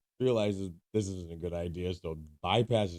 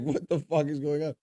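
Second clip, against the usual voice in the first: laughing disbelief; 9 semitones higher, 4 dB louder than usual. Retold or imitated. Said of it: "I'm like".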